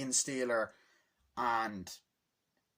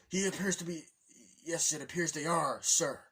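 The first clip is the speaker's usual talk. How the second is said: higher-pitched reporting underling; imitated paratrooper; 4 semitones higher than usual. Blue paratrooper reporting to his boss, higher imitated voice. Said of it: "he gave him a personality".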